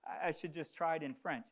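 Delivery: halting, stammered retold reply; shocked hesitation. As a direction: stumble through it as if caught off guard. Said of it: "I was in shock".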